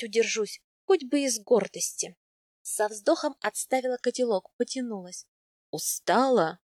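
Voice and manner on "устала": low, gentle male character line; soft tender question. A narrator's reading. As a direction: ask it softly, in a lowered pitch. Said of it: "мягко спросил Аяс".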